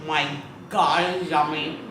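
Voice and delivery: talking through a mouthful of taco; chewing while speaking; mouth full. Real, not acted. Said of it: "I'm eating with my mouth full".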